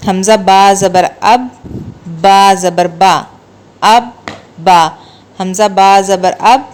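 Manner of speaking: اب with a firm, doubled ب; firm shadda on ب in اب، ابی، ابو; doubled shadda sound. Shown as a demonstration. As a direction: press the ب in اب twice, firmly. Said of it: "تھوڑا سا مضبوطی سے پڑھتے ہیں".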